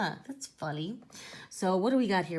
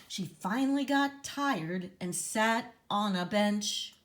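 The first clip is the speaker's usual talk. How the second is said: storybook reading; 3 semitones higher than usual. A narrator's reading. Reads rhyme.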